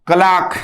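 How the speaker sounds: क्लार्क stressed for the class; emphatic pronunciation. Shown as a demonstration. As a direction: drill क्लार्क loudly, long open vowel. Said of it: "ठीक है".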